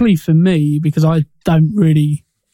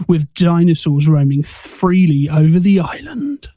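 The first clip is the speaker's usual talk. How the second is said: booming trailer narrator read; movie trailer voice. Shown as a demonstration. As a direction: announce it like a film trailer. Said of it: "put on my best movie voice now".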